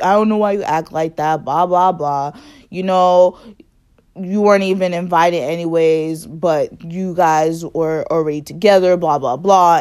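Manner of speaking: a hint of the cousin ranting in the car; cousin's rant. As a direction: keep nagging on and on. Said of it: "it just kept going, the whole ride home".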